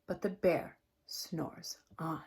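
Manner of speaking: soft whispered refrain. A narrator's reading. Reading aloud to a child, whispering the refrain. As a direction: hush it, the bear is sleeping.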